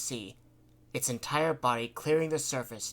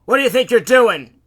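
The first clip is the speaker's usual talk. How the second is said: high, loud confrontational shout; angry demand; 11 semitones higher, 19 dB louder than usual. A narrator's reading. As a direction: yell while holding someone back. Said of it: "Bugsy demanded".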